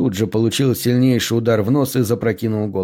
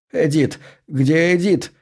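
higher, anxious searching question; contained panic, pitch raised; alarmed calling; 5 semitones higher, slower than usual. A narrator's reading. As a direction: call out in sudden worry, without shouting. Blind father suddenly remembers missing Edith.

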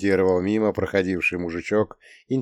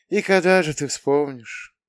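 higher, mildly plaintive question; sad sigh; 7 semitones higher than usual. A narrator's reading. Mother asking when her son will remember, sad sigh. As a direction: ask with a touch of sadness. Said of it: "Грустно вздохнула мама".

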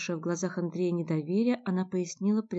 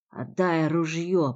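hoarse rasp; 5 dB louder, much slower than usual. Acted. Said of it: "прохрипел он".

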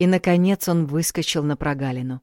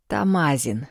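spat out; 2 semitones lower, slower than usual. Acted. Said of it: "выплюнул Александр".

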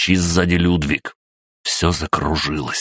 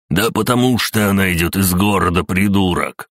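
yelling; 3 semitones higher than usual. Acted. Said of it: "заорал Эйнар".

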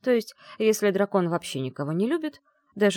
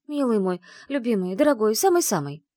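higher, louder, coaxing endearments; chirping sweetly; 5 semitones higher, 4 dB louder than usual. Acted. Bride sweet-talking her dragon groom, chirping coaxingly. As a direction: sweet-talk him through the door. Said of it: "защебетала".

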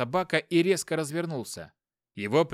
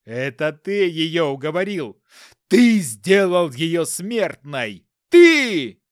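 building rage; 3 semitones higher, 11 dB louder, slower than usual. Acted. Husband accuses lover.

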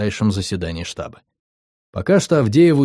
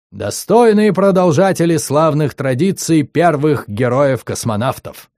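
торжественно и громко, как диктор; с пафосом диктора кинохроники; гремящий голос; 4 semitones higher, 3 dB louder than usual. Acted. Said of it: "прогремел голос". (громкий торжественный диктор)

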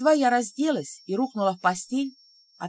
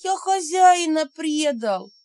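high slow howl of grief; howling lament; 6 semitones higher, 6 dB louder, slower than usual. A narrator's reading. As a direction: howl it out in despair. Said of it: "только и взвыл он". (взвыв от горя)

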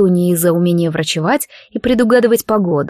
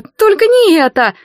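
pleading scream; 11 semitones higher, 4 dB louder than usual. A narrator's reading. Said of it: "закричали сёстры".

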